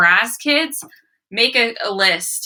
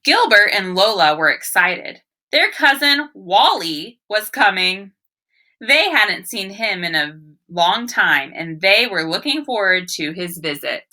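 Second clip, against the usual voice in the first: put-on story read to children. Teacher reads the story aloud.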